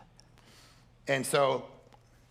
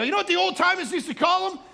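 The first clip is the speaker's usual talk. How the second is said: much higher, louder preaching cry; pulpit riff; 10 dB louder than usual. Retold or imitated. Preacher riffing at the sermon, loud high shout. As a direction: preach it full force, drawing out heaven. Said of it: "I'm riffing, rah, rah".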